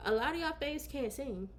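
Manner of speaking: staring into the camera, dead serious; mock serious. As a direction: deliver it like a bold confession. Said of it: "and look into this camera".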